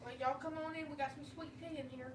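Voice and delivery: put-on playful Southern redneck accent; mock Southern accent. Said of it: "my little redneck wife".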